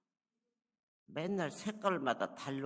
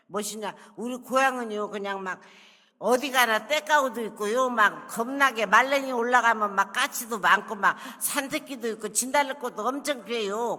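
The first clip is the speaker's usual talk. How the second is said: broad Jeolla country dialect, higher and louder; proud Jeolla-dialect schoolgirl, pitched up and loud; 6 semitones higher, 9 dB louder than usual. Retold or imitated. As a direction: introduce yourself in thick Jeolla dialect, eager and loud. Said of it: "전라도 말을 한순간에 고치는가".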